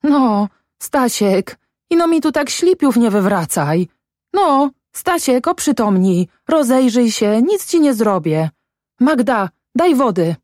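high, anxious pleading; trembling voice. A narrator's reading. Mother pleads with her limp son, high trembling voice. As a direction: coax in alarm, drawing out the name. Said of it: "mówiła drżącym głosem".

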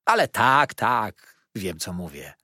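wdowa rozżalona, coraz głośniej się skarży; żałosny lament. Acted. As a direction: narzeka płaczliwie, wyżej i głośniej. Wdowa zaprzecza pocieszeniom. (wdowa Gamage skarży się gospodarzowi, żałośnie i głośno)

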